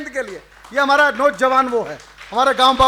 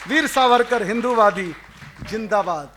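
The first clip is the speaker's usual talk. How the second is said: lower, subdued recitation, falling away; poem's closing refrain; 4 semitones lower than usual. Acted. Poet ending his Savarkar verse for the audience, subdued closing recitation.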